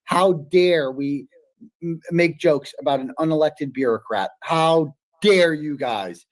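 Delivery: slow, drawn-out sarcastic gasp of offense; sarcastic mock outrage. Mocking the critics who attacked the judge, slow fake horror. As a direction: stretch it out, dripping with fake indignation.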